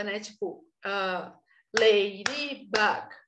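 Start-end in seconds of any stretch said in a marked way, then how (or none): 1.8-3.1 "ladybug" drawn out very slowly in separate syllables. Shown as a demonstration. Teacher demonstrating a syllable game to parents, syllable by syllable. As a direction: break "ladybug" into slow, distinct beats. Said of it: "brincadeiras com sílaba".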